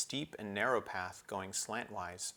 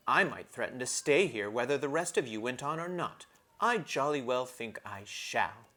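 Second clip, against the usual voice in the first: put-on a higher, petulant girl's voice; sulky Susan; 3 semitones higher, 4 dB louder than usual. Sulky Susan threatening the others, petulant girl voice. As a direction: sulk it out like a spoiled older sister.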